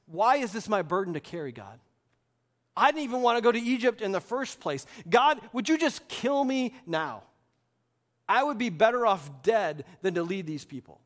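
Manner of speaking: exasperated plea, mildly acted; meltdown. Worn-out Moses pleading with God, mild acted meltdown. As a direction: protest like someone at the end of their rope. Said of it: "Moses has a meltdown".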